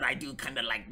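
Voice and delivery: lightly put-on voice of an angry user; mock an angry commenter at ordinary pitch and volume. Shown as a demonstration. Streamer making fun of angry users, lightly put-on angry voice. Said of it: "when people are angry".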